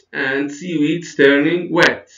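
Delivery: slow, measured repeat, falling on "wet"; drawn-out teacher demo, "wet" brought down; list intonation. Shown as a demonstration. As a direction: model the closing item with weight on "wet". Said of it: "notice the intonation".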